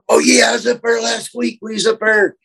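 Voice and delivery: high, folksy Southern voice; Southern accent. Acted. Chatting in a crowd of people, high Southern accent. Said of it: "I just naturally talk that way".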